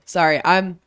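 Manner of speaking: hoarse, worn-out voice after a show. Real, not acted. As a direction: rasp from losing the voice. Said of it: "unsurprisingly losing my voice".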